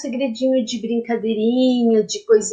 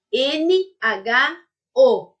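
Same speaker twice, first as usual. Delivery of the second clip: letters spelled slowly; 3 semitones higher, much slower than usual. Shown as a demonstration. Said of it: "spelling out letters".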